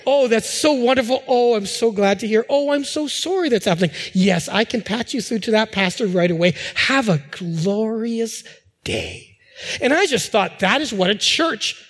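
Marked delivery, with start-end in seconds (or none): 0.1-9.4 lightly acted, gushing sympathy on the phone; angelic receptionist. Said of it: "comforting voice".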